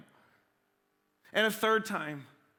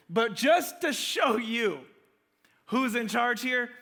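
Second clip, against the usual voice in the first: mock-proud fisherman, daring the rabbi; defiant shout; 2 semitones higher, 3 dB louder, slower than usual. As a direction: raise the voice, slow and pointed. Peter retold, defiant to Jesus.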